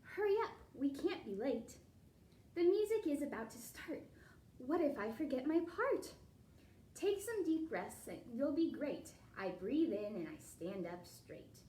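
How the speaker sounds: lilting storybook read-aloud; reading to children. A narrator's reading. Teacher reading a ballet picture book to the class, lilting read-aloud. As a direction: read the rhyme to the kids with a bounce.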